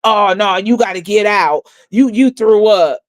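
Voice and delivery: hammed-up imitation of the security woman, slowing at the end; sneering impression of the guard; mocking her voice. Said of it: "This how she sound, ghetto trash".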